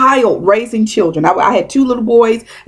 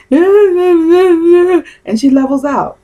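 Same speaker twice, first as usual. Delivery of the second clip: a high, slow laugh that stretches the words out; 8 semitones higher, 3 dB louder, much slower than usual. Real, not acted. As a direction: laugh through it as she levels out. Mimicking a woman settling down.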